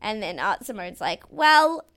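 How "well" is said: mock pep talk. Imitating drag queen's pep talk.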